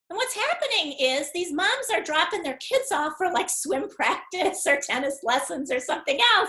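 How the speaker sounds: high, chatty clerk with bursts of laughter; a lightly voiced chatty shop clerk; store clerk explaining. Store clerk tells the caller about the moms, high and chatty.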